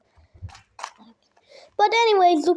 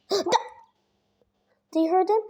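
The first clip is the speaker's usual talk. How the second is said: gasping laugh; 5 semitones higher, much slower than usual. Real, not acted. Gasps at the birds' call.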